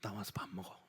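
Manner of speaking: breathy whisper, very soft. Shown as a demonstration. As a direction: hush it like a secret tender call. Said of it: "whispered repeat for effect". (아주 작게 속삭이며)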